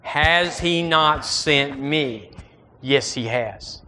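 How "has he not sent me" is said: "Has" hit hard, the whole line slow; slow, stressed "Has". Shown as a demonstration. Preacher leading the church, slow, stressing "Has". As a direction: lean on "Has" and draw the question out. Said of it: "One more time".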